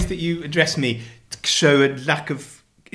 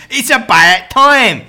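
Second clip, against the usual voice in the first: loud, slow Cockney, pitched up; mock Cockney; 6 semitones higher, 8 dB louder, much slower than usual. Husband quotes a Cockney campaigner, loud hammed-up Cockney. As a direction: belt it out in broad Cockney.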